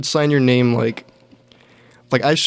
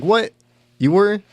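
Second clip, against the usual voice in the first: high, startled mock-mom disbelief; imitating mom's shocked delight, pitched way up; surprised mom; 9 semitones higher than usual. Mom hearing her son did an open mic, shocked and high.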